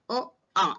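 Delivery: isolated "ओ, आ" sounded from the throat; teacher's separate "ओ, आ", made in the throat; throat vowel demo. Shown as a demonstration. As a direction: demonstrate "ओ, आ" as open throat vowels. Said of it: "हमारा स्वर कंठ से निकलता है".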